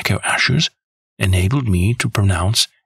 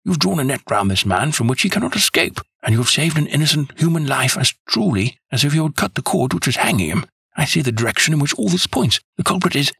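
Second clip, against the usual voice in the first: eager; 6 semitones higher than usual. Acted. Watson eagerly declares his conclusion.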